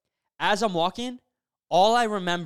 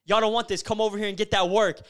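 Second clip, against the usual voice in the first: retold yelling; 3 semitones higher, 3 dB louder than usual. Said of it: "I start, like, yelling at them".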